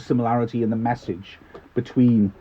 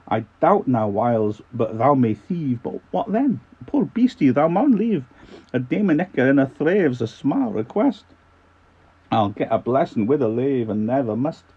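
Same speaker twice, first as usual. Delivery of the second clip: lilting Scottish recital, swooping high; Scottish accent; 4 semitones higher, 4 dB louder than usual. Acted. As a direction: recite dialect verse as a Scot. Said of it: "in a bit of a Scottish accent".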